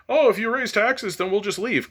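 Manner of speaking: high-pitched squalling crybaby voice; mock whining. Speaker mocks the wealthy threatening to leave over taxes, mock whining. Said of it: "they're crying and they're squalling and they're whining".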